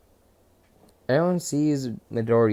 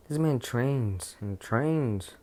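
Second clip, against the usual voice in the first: slow emphasis; much slower than usual. Acted.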